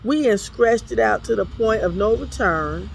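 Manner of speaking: preacher voicing the widow's desperate protest. Preacher to congregation, pleading as the widow.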